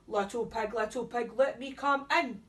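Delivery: demanding wolf. Acted. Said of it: "demanded the wolf".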